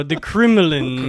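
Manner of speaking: slow mock Russian; Russian accent. Shown as a demonstration. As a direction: practise a Russian voice slowly. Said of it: "can do a Russian voice".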